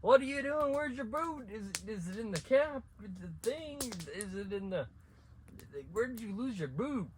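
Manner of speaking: high, loud imitated scream; the father screaming at his son about the missing boot; dad screaming. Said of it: "my dad yells and starts screaming".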